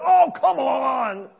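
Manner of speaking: high, loud and slow, drawn-out groan of frustration; wife on a bike trip, worn out, crying out in frustration; frustrated, tearful cry. Retold or imitated. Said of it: "through tears and a voice that was very frustrated".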